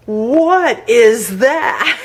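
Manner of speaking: mock-spooked, very drawn-out question; retold wide-eyed alarm. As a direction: imitate a stunned husband, stretching each word. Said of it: "his eyes real wide".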